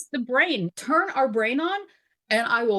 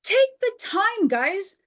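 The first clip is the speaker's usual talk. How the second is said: high, louder, slow appeal to guys; emphatic plea; 7 semitones higher, 3 dB louder, slower than usual. Acted. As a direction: call out to all the guys, drawn out. Pleading call to men.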